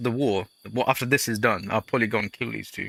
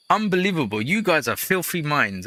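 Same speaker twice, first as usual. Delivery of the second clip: mock outrage; 6 semitones higher than usual. Real, not acted.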